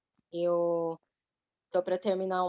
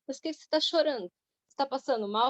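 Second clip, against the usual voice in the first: higher, quick imitation of a concerned friend; retold startled question, pitched up and hurried; 5 semitones higher, faster than usual. Friend asking the crying woman what's wrong, retold concerned questioning.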